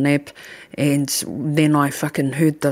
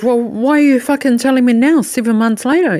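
fast, high and loud; angry demand; 7 semitones higher, 4 dB louder, faster than usual. Retold or imitated. Demanding why her partner waited seven months: fast, high, angry. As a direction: fire the question at him. Confronting him over the timing.

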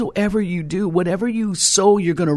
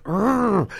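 mock annoyed urgh, pitched up; a light retold grunt of anger; angry groan; 5 semitones higher than usual. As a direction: imitate a frustrated growl. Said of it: "I could feel like she was angry".

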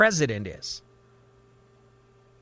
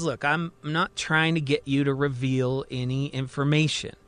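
calm. Acted. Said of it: "looks up at him calmly".

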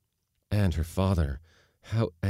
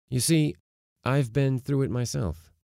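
higher, lifted admission; lightly voiced father owning up; confiding father; 7 semitones higher, 5 dB louder than usual. A narrator's reading. Father telling daughter he suffered the same, confiding. Father gently confesses his own failure.

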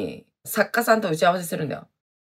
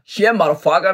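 mock bear cheer; 4 dB louder, faster than usual. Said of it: "みたいな感じで".

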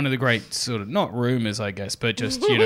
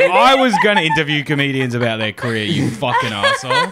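hammed-up angry rant; mock angry; 3 semitones higher, 6 dB louder than usual. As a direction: play an outraged podcaster. Mock angry Maron quote.

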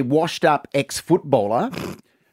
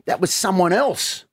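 put-on drunk husband's excuse; 4 semitones higher than usual.

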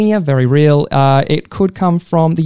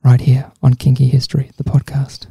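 radio host voice; 3 semitones lower than usual. Pretend. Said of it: "classic F M hosts".

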